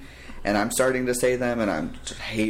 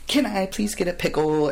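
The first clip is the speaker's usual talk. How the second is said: put-on dramatic kid; 7 semitones higher than usual. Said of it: "even his motions are like".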